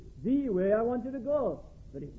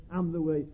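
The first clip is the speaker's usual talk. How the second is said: "am the way" falling lower after the emphatic "I"; unstressed after I; 5 semitones lower than usual. Shown as a demonstration. Preacher finishing the quoted verse, "am the way" left unstressed. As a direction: let "am the way" drop away beneath the pronoun. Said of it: "The emphasis on who is the way".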